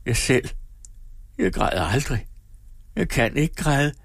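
understated anguish; intense whisper. A narrator's reading. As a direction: lament it with rising intensity. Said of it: "hviskede hun højere".

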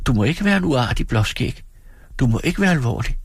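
høj, langsom og kælen; kælen pigestemme. Acted. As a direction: lok ham til at smile. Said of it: "udbrød Dora". (Dora kæler for sin mand)

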